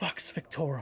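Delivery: secretive, theatrical stage whisper. Voicing a figure who half-whispers into a smooth stone: half-whispering. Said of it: "but he whispers".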